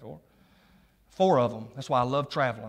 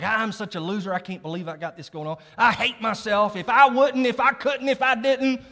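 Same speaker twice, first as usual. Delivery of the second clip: rising louder and higher into frustration; self-berating voice; 7 semitones higher, 6 dB louder than usual. Retold or imitated. Acting out a struggler berating himself, building frustrated voice. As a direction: beat yourself up, climbing.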